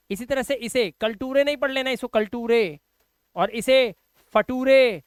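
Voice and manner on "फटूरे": फटूरे read wrongly as fa-TOO-ray; a slightly louder wrong फटूरे. Shown as a demonstration. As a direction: show the mistake फटूरे. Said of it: "ऐसे नहीं पढ़ना है".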